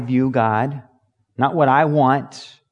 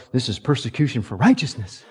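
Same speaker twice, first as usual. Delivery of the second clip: self-pitying claim; 3 semitones lower than usual. Acted. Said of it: "sit in jail and go".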